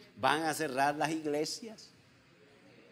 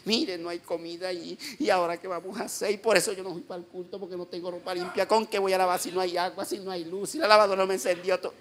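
fast, imitated stream of complaints; mock whining; 4 semitones higher, 5 dB louder than usual. Pastor imitating a member excusing missed church, mock whining. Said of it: "comienza una llorería, usted le escucha el llorío".

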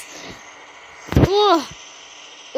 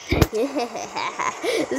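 silly laugh; 5 semitones lower, 7 dB quieter than usual. Pretend. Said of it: "Silly laugh".

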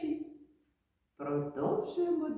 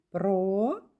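split into syllables. Shown as a demonstration. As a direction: sound out "Промінець" syllable by syllable. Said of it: "Ще раз слухайте".

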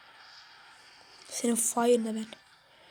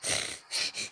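laughing out of sheer frustration; exasperated short laugh; frustrated laugh; 7 dB quieter than usual. Real, not acted. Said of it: "Şu an sinirden gülüyorum ha".

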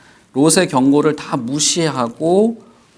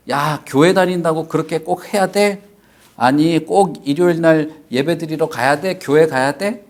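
mocking friend; 3 semitones higher than usual. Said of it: "이러면서 우리를 비웃을 수도".

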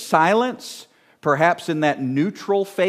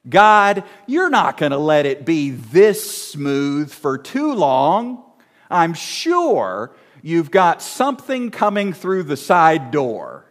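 anxious inner voice. Retold or imitated. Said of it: "We might think thoughts like this".

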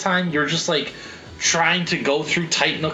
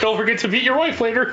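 1950s father voice; 6 semitones higher than usual. Pretend. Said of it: "old nineteen fifties father voice".

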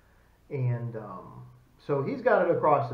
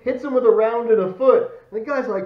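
normal talking voice

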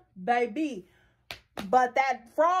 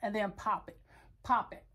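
soft rhythmic pop it; 4 semitones lower, 8 dB quieter than usual. Shown as a demonstration. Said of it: "sometimes you can just lay on them".

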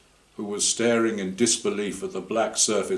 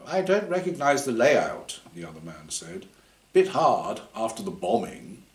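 other man; 3 semitones higher than usual. Acted. Another team member answers.

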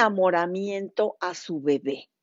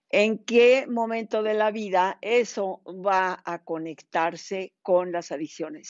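louder, projected explaining voice; speaking up; 3 dB louder than usual. Real, not acted. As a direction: speak up so the listeners can hear. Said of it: "voy a hablar más fuerte".

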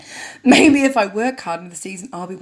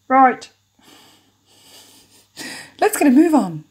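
bossy producer; 5 semitones higher, 5 dB louder than usual. Acted. Producer voice urging crew.

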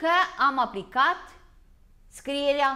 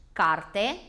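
slow clear demo; 4 semitones lower than usual. Shown as a demonstration. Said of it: "încercați să le despărțiți".

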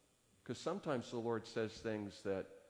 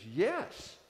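curt yes; 7 semitones higher, 6 dB louder than usual. Retold or imitated. Agitated young man answers.

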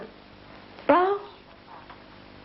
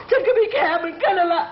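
tearful defiance. Acted. Wife breaks down after shouting.

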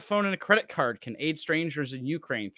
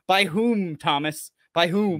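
louder pointed demand, by whom; sarcastic rhetorical demand; indignant retort; 3 semitones higher, 5 dB louder, slower than usual. Pretend. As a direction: challenge the author mockingly. Indignant mock challenge to author.

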